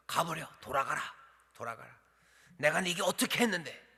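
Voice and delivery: angry reading. Shown as a demonstration. Preacher contrasts Elijah's words read angrily. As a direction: snap it at him. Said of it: "엘리야가 화가 난 거죠".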